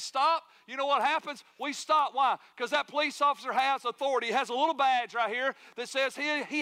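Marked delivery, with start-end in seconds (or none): 0.0-0.4 loud, high, sudden order to halt; sharp raised-voice command; officer's command. Acted. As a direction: call it out like traffic police. Acting police officer ordering a stop.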